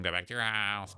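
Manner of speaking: lightly mocking, drawn-out imitation; mocking mimicry. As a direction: mimic them with a stretched-out last word. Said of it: "She's mimicking them".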